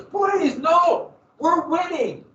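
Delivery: high, loud desperate plea; pleading shout. Retold or imitated. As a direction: beg him not to retreat. Generals pleading with McClellan.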